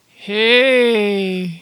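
loud, drawn-out French greeting; badly faked French flirt; attempted French accent. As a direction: stretch it out in a mock French accent. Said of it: "I'll try and do French".

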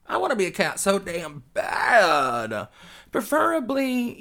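yearning wail. Real, not acted. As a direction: wail it with longing. Longing wail.

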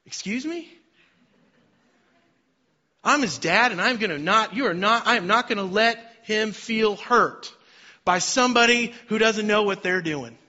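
high, loud indignant dad; mock-protective father telling off a stranger; imagined angry dad defending his son; imagined outburst. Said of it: "And I remember thinking".

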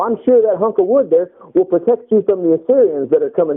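a light mock taunt. God mocking idol worshippers, a light sarcastic taunt. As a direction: tease them as God mocks idol makers. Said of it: "God would mock them".

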